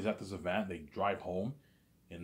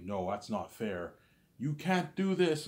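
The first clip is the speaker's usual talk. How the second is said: protesting; 2 semitones higher, slower than usual. Retold or imitated. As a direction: beg against the unfair end. Protesting machine destroyed him.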